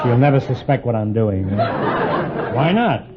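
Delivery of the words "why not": mock-charming, drawn-out why not; turning on the charm. Shown as a demonstration. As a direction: lay on a touch of fake charm. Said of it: "So I'll throw on the charm here".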